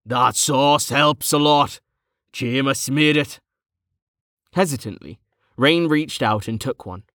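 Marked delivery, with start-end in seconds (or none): 0.0-3.4 talking through a mouthful, slowly; mouth full. A narrator's reading. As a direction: chew the words round the food. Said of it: "speaking with his mouth full".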